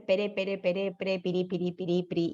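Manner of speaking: quiet repetitions of "pere" sliding to "piri"; "piri, piri" murmured with a light tapped r; soft r drill. Shown as a demonstration. Therapist softly modelling r syllables for a child.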